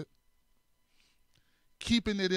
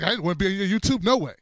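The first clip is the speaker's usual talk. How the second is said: woman's retort; 4 dB louder, much faster than usual. Retold or imitated. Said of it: "She's like".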